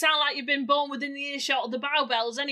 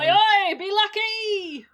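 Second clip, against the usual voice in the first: high, loud, slow call of oi oi; loud East End send-off; Cockney farewell shout; 9 semitones higher, 7 dB louder, much slower than usual. Acted. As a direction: shout it off like a departing geezer. Character bids Cockney farewell.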